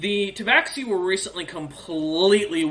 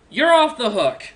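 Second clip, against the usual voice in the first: higher, louder, slow pronouncement; grand dragon verdict; 7 semitones higher, 7 dB louder than usual. Acted. Dragon releasing a transformed player, higher, louder and slow. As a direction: hand down the pardon from above. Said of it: "she looks down and goes".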